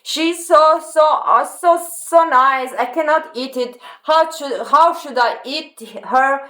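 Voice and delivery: hammed-up sweet sorrow, pitched high; mock-pitying lion. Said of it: "he doesn't say".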